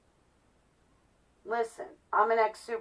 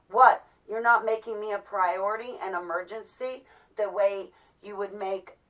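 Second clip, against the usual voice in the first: mocking demanding caller.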